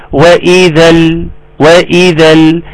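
"وإذا ال" slow, ending on an audible l; clearly sounded lam. Shown as a demonstration. Teacher showing the moon lam is pronounced, clear lam. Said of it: "اللام بتاعت الجبال قمرية تنطق".

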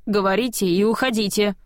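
ordinary delivery, nothing marked

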